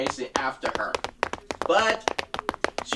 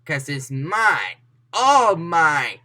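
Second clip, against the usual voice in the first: louder on all mine; rising greedy insistence; possessive claim; 6 dB louder, much slower than usual. Acted. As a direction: insist greedily it's hers. Villain claims painting.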